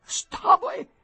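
very high, halting, about to sneeze; starnuto in arrivo. A narrator's reading. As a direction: break off each word as a sneeze builds. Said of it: "E uno starnuto, tardo a scoppiare". (voce acuta che sale verso lo starnuto)

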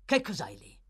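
loud, barking demand; sharp challenge. A narrator's reading. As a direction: lunge forward and snap it out. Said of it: "domandò Sikes, balzando avanti".

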